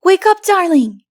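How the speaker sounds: put-on urgent child trying to wake a pet; boy shouting wake up to the leopardess; child crying out. A narrator's reading. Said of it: "he cried".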